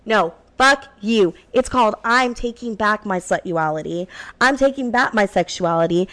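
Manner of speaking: sassy host intro with attitude; radio host. Acted. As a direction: own it and throw it at the haters.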